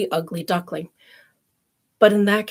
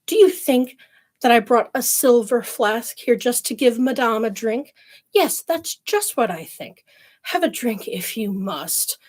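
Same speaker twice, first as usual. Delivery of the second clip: mocking, haughty rude girl; arrogant girl; 3 semitones higher, 3 dB louder than usual. Rude girl scorning the lady at the spring, arrogant. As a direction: sneer it down at her. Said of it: "said the rude girl arrogantly".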